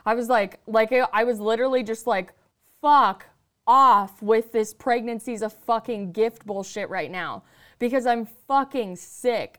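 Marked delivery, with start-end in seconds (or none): 2.8-9.6 fed-up retort, spaced out word by word; retold angry outburst. Pregnant woman telling off mother-in-law, acted exasperation.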